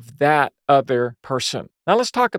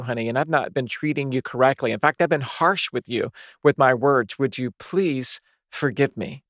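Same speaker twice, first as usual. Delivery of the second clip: sincere confession. Shown as a demonstration. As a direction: ask her forgiveness gently, meaning it. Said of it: "confess it more like this".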